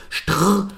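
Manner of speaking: "Str" as sht-r with no vowel; rolled-out "Str", cut off from the word; isolated consonant cluster. Shown as a demonstration. Teacher taking Strumpf apart, isolated opening consonants. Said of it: "sind die Konsonanten".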